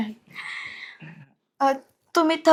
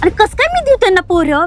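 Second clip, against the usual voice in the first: higher-pitched, aggrieved question; exasperated, pitched-up objection; indignant protest; 5 semitones higher than usual. Acted. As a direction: protest at an impossible demand. Wife protesting in-laws' demand.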